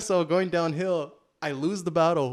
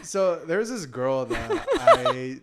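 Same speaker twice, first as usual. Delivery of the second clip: laughing; 3 dB louder, much slower than usual. Real, not acted. Laughing while starting story.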